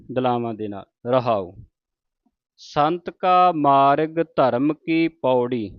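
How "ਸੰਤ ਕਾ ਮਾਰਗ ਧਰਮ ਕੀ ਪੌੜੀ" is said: slow, measured chanting of the line; slow Punjabi recitation; slow scripture recitation. Shown as a demonstration. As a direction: recite it slowly like gurbani. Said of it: "ਮਾਰਗ ਤੇ ਜਮਕੀ ਲਾਉਣੀ ਏ".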